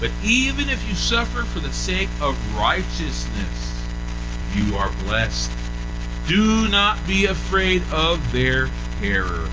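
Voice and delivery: slow, measured scripture reading. Acted. Preacher reading First Peter to the flock, slow and measured. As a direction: give each word its weight.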